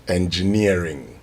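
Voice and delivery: slow, measured "engineering" with a falling end; correct pronunciation. Shown as a demonstration. Presenter teaching colleagues to say it right, slow careful "engineering". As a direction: say "engineering" slowly, as the model to copy. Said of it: "if you want to say it right".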